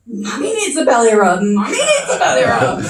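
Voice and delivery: hammed-up mock plea, laughing; begging for belly rub. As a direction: beg like a dog rolling over. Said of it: "and say".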